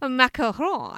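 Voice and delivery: "macaron" with a throaty French r; put-on French accent. Teasing the co-host's habit, "macaron" in put-on French accent. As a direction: mimic a French pronunciation of "macaron". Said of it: "when you're trying to put it on".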